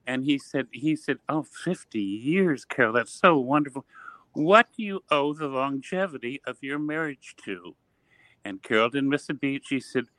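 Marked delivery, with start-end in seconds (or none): 1.3-7.8 a touch of mock wonder; gushing interviewer. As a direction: imitate a host marvelling at a long marriage. Retold gushing TV host interview question.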